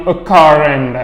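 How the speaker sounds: "a car and" with the R carried into "and"; demonstrating liaison in "a car and"; linking R. Shown as a demonstration. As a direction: join "car" to "and" through a sounded R. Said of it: "On va faire la liaison".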